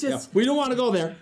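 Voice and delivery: high, loud words through a laugh. Real, not acted. Guest laughing off the rude reader, laughing.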